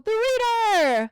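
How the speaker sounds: the reader stretched out, slow and loud; pointed emphasis. Real, not acted. Host accusing the reader, slow loud emphasis. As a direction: land it right on the viewer. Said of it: "specifically for you".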